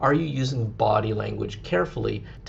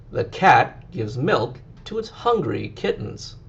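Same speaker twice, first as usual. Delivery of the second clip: read slowly again; 2 semitones higher than usual. Shown as a demonstration. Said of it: "just listen to me read it out slowly".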